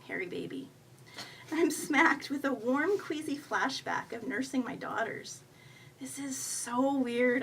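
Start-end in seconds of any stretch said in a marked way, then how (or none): none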